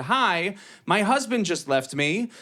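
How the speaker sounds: high-pitched mock customer voice; imitated customer. Woman asks bookseller after husband left, imitated high voice.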